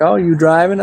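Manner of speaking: retold dad in a Maine accent. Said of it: "That's my main accent".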